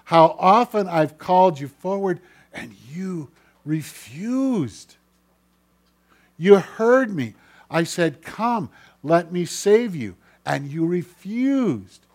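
grieved, forceful divine rebuke; God. Acted. Preacher speaks as God to the unheeding listener, reproachful. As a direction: plead loudly, then draw out the refusal in a rising-and-falling cry. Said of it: "God is speaking to your heart".

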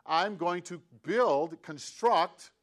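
slow, every word given weight; slow emphatic gloss. Shown as a demonstration. Preacher explaining the word to listeners, slow and deliberate. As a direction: spell the meaning out slowly. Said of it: "that's what the word means".

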